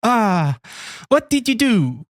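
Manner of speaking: hammy Italian creep; Italian accent. Pretend. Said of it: "Can you do an Italian accent?".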